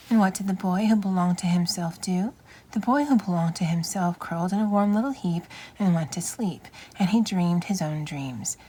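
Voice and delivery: gentle storybook read-aloud; reading to children. Acted. Reading picture book aloud.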